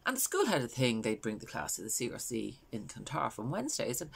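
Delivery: understated, conversational mother telling her story; Valerie. Acted. A mother recalling her daughter's swimming classes, understated storytelling. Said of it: "this is a character called Valerie".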